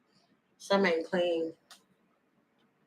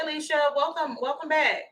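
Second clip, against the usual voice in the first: normal talking voice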